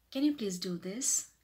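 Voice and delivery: humble polite request. Shown as a demonstration. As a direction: ask gently, as to an office colleague. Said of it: "try to sound more humble".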